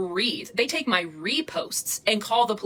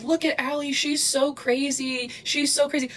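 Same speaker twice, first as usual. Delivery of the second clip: higher, drawn-out taunting sing-song; mocking imitation; 5 semitones higher than usual. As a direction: mimic her calling you crazy, stretched out. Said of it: "She's like".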